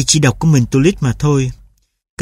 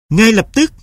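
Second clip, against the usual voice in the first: higher, curt insistence; mother's stern order; 7 semitones higher than usual. A narrator's reading. Mother insists the dog go now, stern. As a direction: insist immediately.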